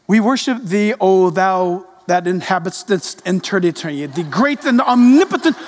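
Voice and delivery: lightly put-on lofty prayer voice; mock formal prayer. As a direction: pray as if God is far away, swelling at the end. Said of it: "and then they'll pray".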